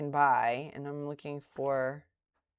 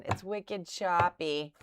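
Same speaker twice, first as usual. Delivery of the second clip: slow, drawn-out Boston "It's wicked choppy"; Boston accent; slower than usual. Shown as a demonstration. Streamer repeating her Boston phrase, slow Boston accent. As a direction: lean into the Boston vowels, slowly. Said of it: "that's how you can tell I'm from Boston".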